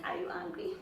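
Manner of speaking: high, anxious pleading. Retold or imitated. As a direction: ask again in a high worried voice.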